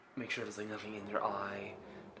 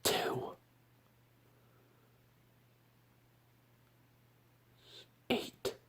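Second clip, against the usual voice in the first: whisper in ear; 10 semitones higher, much slower than usual. Shown as a demonstration. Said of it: "I'm gonna whisper to you, into your left ear".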